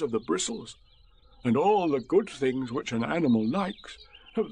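lightly lilting verse reading; poem recital. A narrator's reading. Bear making up a poem, gently lilting recital. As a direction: recite in measured rhyme.

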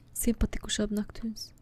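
whisper. Real, not acted. Whispering to statue.

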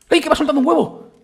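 high, loud delighted yelp; excited shout. Real, not acted. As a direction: shout with glee at the surprise egg. La gallina suelta un huevo. (grito de alegría, agudo y fuerte)

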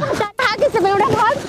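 slow, irritated shooing-off; angry dismissal. Real, not acted. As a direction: send the pest packing. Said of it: "गुस्सा काहे हो रही हो".

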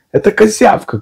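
high squeaky cry. A narrator's reading. Piglet cries out to Pooh that it's the bug. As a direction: cry it out in a tiny voice. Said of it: "крикнул Пятачок".

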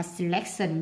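"selection" stressed on the second syllable, LEC. Shown as a demonstration. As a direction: demonstrate "selection" with the beat on LEC. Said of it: "nhấn âm hai".

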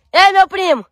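high, urgent call in pain; pained complaint. Acted. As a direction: call for help while it burns. Burning after stinging leaf.

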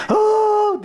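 a sudden high, loud wailing cry; loud mock wail. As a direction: wail out "Aa!" the way people should not cry. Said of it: "diye ağlamazdı". (yüksek sesle taklit edilen feryat)

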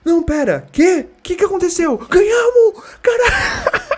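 very high, crying shouts of a win; disbelieving joy. Real, not acted. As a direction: scream with tearful disbelief. Realizing they won. (gritos de alegria incrédula)

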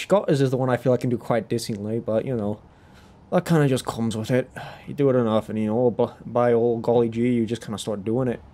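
casual Scottish lilt; Scottish accent. Shown as a demonstration. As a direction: chat easily in a Scottish accent. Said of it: "And then there's Scottish".

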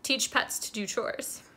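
whisper. Real, not acted. Conspiratorial joke aside.

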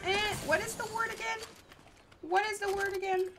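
imitating himself searching for a word. Streamer mimicking himself forgetting words, high and puzzled. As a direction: act out groping for a forgotten word. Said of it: "I'm like".

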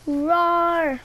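drawn-out, level playful roar; mock roar. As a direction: let out a long pretend roar. Imitates a roar while playing.

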